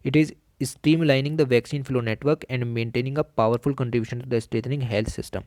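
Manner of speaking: reading the text out word by word, slow; slow dictation reading. Shown as a demonstration. Teacher dictating notes to exam students, slow and deliberate. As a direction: dictate it slowly so students can note it down.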